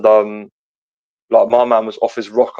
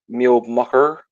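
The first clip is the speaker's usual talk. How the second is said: put-on old Isle of Wight farmer accent; 2 semitones higher than usual. Shown as a demonstration. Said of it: "Yeah, that's it".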